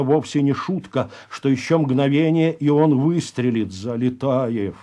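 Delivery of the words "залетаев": high, drawn-out exasperated cry; desperate cry. Acted. Голубов begs Залетаев to move before a shot, desperate. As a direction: stretch the curses out in despair. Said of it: "с отчаянием крикнул Голубов".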